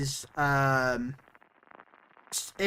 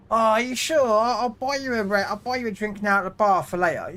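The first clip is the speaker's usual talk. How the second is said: put-on eager drunk; 7 semitones higher than usual. Drunk punter offers drink.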